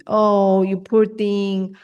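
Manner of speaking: slow, syrupy pity; drawn-out fake concern; mock false sympathy. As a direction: imitate a hollow comforter, slowly. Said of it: "like, false sympathy".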